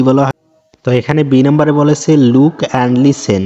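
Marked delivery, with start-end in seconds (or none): 2.2-3.4 very slow, careful English reading; slow read-aloud. Shown as a demonstration. Teacher reading the textbook instruction slowly to pupils. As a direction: spell it out slowly for the class.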